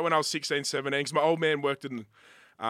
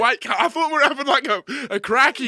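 high, loud, outraged mock surprise; mock disbelief; 10 semitones higher, 8 dB louder than usual. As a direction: squeal it as if betrayed by your mate. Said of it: "And I'm like".

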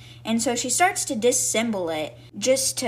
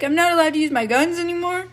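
high, quick, louder mock-upset question; mock sad; 7 semitones higher, 5 dB louder, faster than usual. Jim protesting to his teacher about losing his guns, mock sad. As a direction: put on a hurt, high-pitched protest. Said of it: "And then Jim gets sad".

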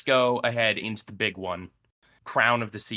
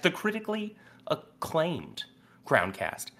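bill your own show like a movie trailer, tongue in cheek; mock trailer announcer; 6 semitones higher than usual. Host hyping his own podcast to listeners, mock announcer. Self-mocking grand show billing.

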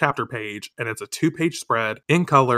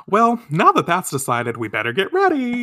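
Luna voice; 7 semitones higher than usual. Acted. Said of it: "and she says".

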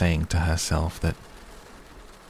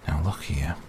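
sharp. Acted. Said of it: "he said sharply".

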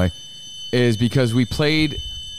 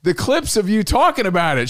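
put-on higher, eager girl asking; imitating excited girl; 10 semitones higher than usual. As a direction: gush with curiosity. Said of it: "She's like".

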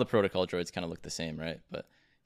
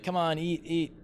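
high, pushy grandparent urging food; guilt tripping grandma; 6 semitones higher than usual. Retold or imitated. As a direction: coax someone to eat, high and insistent. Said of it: "the parent or grandparent that's like".

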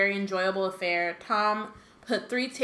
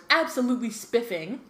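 laughing posh mock; 3 semitones higher than usual. Twins mocking Percy, laughing.

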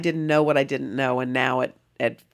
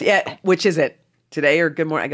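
nosy seatmate; 2 semitones higher, 9 dB louder than usual. Retold or imitated. Seatmate asking which show, loud and nosy. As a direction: press her loudly like an oblivious stranger.

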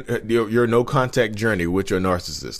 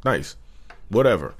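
unenthused; 4 dB quieter than usual. Pretend. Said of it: "if you have to say it like this".

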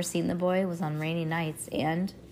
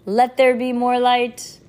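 dramatic title; 5 semitones higher, 8 dB louder, slower than usual. A narrator's reading. Chapter title.

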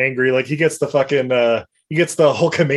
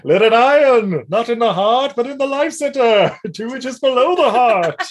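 put-on quoting the old film's doctor, high and theatrical; movie quote impression; 9 semitones higher than usual. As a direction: ham up the old film's dramatic line. Quoting a movie line about the life center.

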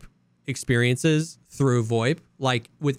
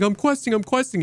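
mock high quest call; 7 semitones higher than usual. Retelling a player's voip call.

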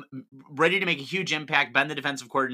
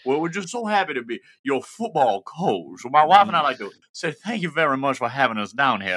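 Southern drawl; 2 semitones higher, 6 dB louder than usual. Retold or imitated. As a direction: lay on a thick Southern US drawl, playing the coach. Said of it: "you have to do this in your Southern drawl".

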